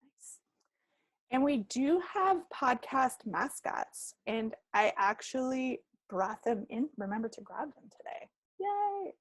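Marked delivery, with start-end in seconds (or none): 0.0-0.4 breathy whispered approval; whispering. Real, not acted. Reacting to Kelly's handles. 8.6-9.1 high squeal of delight; excited cheer. Real, not acted. Cheering the mascots.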